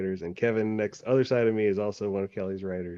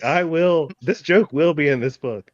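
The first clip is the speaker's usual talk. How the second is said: defiant insistence; 7 semitones higher, 6 dB louder than usual. Retold or imitated. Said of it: "I'm like".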